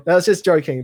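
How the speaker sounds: laughing it off; light laugh after teasing. Real, not acted. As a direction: chuckle through the words. Laughs off his mock hurt.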